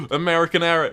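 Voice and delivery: shouted high and loud; excited shout. Retold or imitated. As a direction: shout it like a shocked friend. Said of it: "people go".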